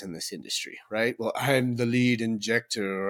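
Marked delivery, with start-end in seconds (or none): 1.2-3.1 slow, haughty diva voice; lightly voiced snooty coworker; mock diva. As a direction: sneer it like a self-important diva.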